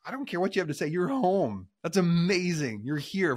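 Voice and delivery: father thrilled his son is home; overjoyed father. Acted. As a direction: burst out with joy at the son's return. Father voiced welcoming son.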